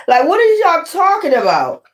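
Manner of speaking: high-pitched baffled question; incredulous, voice shooting up; shocked. Acted. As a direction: act out someone's stunned disbelief. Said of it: "they always shocked".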